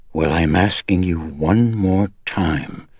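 slow, gritted-teeth demand close to cracking; slow strained demand on the edge of breaking; gritty and cracking. Acted. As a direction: hold it together through clenched teeth. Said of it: "Chris said grittily, her voice cracking and at the edge of shrillness".

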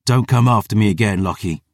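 firm, controlled threat; warning. Acted. Rider warns the prentice off, firm. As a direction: warn him off. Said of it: "I warned".

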